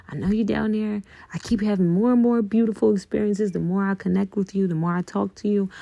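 gentle thankful whisper of love; tender check-in. Pretend. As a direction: check in on someone you love. Checking in lovingly with inner self.

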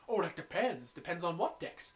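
lightly done Brooklyn waitress; slow, drawn-out Brooklyn accent. Retold or imitated. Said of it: "the waitress has a Brooklyn accent".

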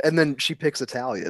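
ordinary talk, nothing marked

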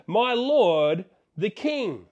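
calling out loud to the distant king. Retold or imitated. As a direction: call out across the distance, respectful but loud. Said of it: "he yells out and he says".

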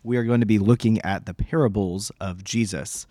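hoarse, worn-out voice. Real, not acted. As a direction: speak through a hoarse throat. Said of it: "my hoarse little voice".

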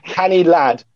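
a light Geordie twang on canny lad; half-hearted Geordie, said with a grin; a brief, sheepish go at Geordie; Geordie accent. Retold or imitated. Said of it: "now I'm not gonna do the accent, but I will actually".

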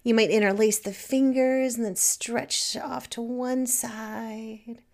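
unhurried stretch guidance with long pauses; guided meditation. Acted. Teacher guiding listeners through body stretches, calm meditation voice. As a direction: ease them through each stretch, savouring it.

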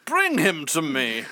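slow, eerie, high-pitched beckoning; creepy Christopher Walken. Retold or imitated. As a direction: coax the boy in, drawn out. Creepy Walken impression line.

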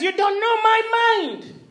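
Jesus scolding his disciples, firm and slow; stern rebuke. Retold or imitated. Jesus rebuking the disciples, stern and slow. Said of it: "He's rebuking them".

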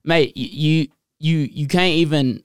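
put-on Aussie accent, faltering; attempted Australian accent. Host answering a fan's question in a mock Australian accent. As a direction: have a shaky go at an Australian accent. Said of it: "I'm gonna do an Australian".

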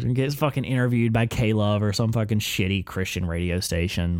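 ordinary talk, nothing marked

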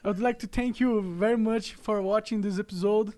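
put-on English with a heavy Brazilian accent; slow mock podcast host intro in Brazilian-accented English; english accent portuguese. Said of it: "o sotaque é uma merda mesmo".

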